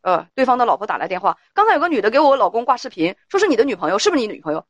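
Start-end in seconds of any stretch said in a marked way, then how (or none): 1.5-4.6 suspicious wife on the phone. Acted. Wife phoning her husband's friend to check, suspicious and raised. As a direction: press him like a doubting wife, raised voice.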